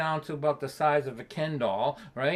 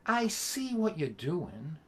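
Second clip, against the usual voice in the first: quiet knowing son; 5 dB quieter, slower than usual. Retold or imitated. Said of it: "I go".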